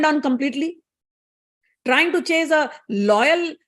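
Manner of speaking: lightly voiced indignant goddess; stern rebuke. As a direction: pronounce judgement, mildly outraged. Goddess rebukes and banishes her servant.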